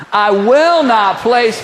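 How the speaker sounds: slow defiant declaration; mock sassy declaration; slow, drawn-out attitude. Shown as a demonstration. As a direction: stretch each word with sass. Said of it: "with a little attitude".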